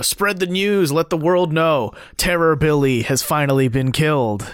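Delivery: a hint of announcing news to the world; mock proclamation. Quotes public announcement of execution.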